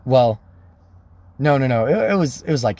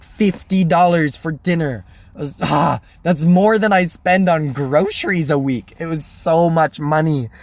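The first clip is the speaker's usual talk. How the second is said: incredulous, slightly raised pitch; mock outrage; 4 semitones higher than usual. Diner reacting to fifty dollars for Denny's, incredulous. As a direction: replay your sticker shock at the bill. Shock at the dinner bill.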